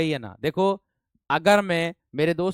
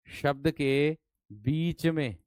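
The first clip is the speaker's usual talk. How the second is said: slow dictation; 4 dB quieter, much slower than usual. Shown as a demonstration. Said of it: "teacher spells out the rule".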